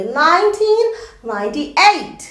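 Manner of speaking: "नाइनटीन नाइंटी एट" with the tongue loose, the t softened; relaxed tongue. Shown as a demonstration. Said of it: "टंग को भी थोड़ा सा अंदर से ढीला छोड़ के बोलूँगी".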